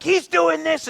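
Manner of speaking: high, loud whiny tattling; Dad, Dad, tattle to get him punished; child tattling. Retold or imitated. Nine-year-old daughter begging dad to punish brother, high whiny.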